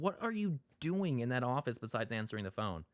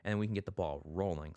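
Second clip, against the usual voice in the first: chirpy phone agent. Retold or imitated. Mocking chirpy customer service.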